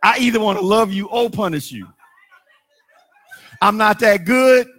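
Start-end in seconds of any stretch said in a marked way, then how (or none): 3.6-4.7 laughing. Real, not acted. Preacher repeating with a laugh.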